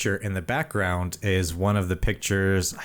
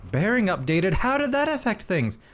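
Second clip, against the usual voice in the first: put-on old man voice; 12 semitones higher than usual. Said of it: "old man voice".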